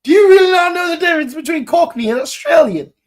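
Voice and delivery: loud, very high, rapid-fire disbelief; exasperated outburst. Acted. Podcaster berating those who mistook Cockney for Australian, loud exasperation. Repeats question, far more heated.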